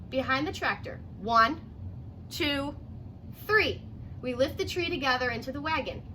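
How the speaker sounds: clear, lively read-aloud voice; storybook narration for young kids; reading to children. Acted. Teacher reading picture book aloud.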